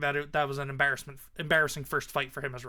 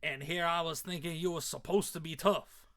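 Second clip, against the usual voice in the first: put-on Southern redneck accent. Redneck mocks his fallen foe, Southern accent. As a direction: belittle your victim in a Southern accent. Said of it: "accent for him came in".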